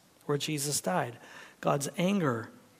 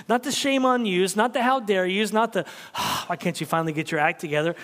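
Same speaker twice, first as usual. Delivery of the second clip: louder, higher imitated scolding; mock scolding parent; 4 semitones higher, 3 dB louder, faster than usual. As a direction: parody a disapproving father. Mock scolding father voices.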